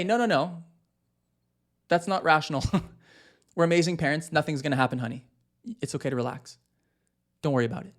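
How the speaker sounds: calm reassurance. Shown as a demonstration. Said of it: "You see how different that is?".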